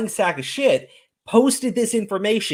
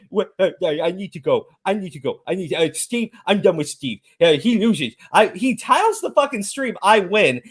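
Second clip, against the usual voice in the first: mocking flustered quote; 3 semitones lower than usual. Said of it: "for him to just say".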